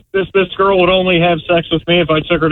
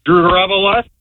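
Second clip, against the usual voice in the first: Drew Garabo live asked, higher, rising on LIVE; echoed question; 6 semitones higher than usual. Retold or imitated. Caller copying the host, questioning rise on live. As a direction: echo it as a puzzled question ending up on live. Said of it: "Every time you say it one way".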